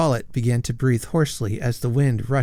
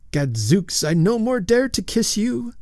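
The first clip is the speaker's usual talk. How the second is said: high ghostly lady; 10 semitones higher than usual. Acted.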